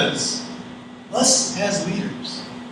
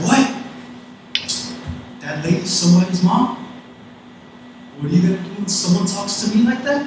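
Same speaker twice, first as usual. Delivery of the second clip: imitated mom; 3 semitones higher than usual. Mom scolding her teen for mocking an old lady, imitated indignation. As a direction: imitate a mother challenging her child, ending on a rising question. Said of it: "My mom looked at me, she's like".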